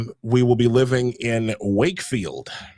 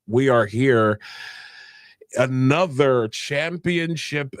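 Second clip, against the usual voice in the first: ringmaster; slower than usual. Acted. Show host opens like ringmaster.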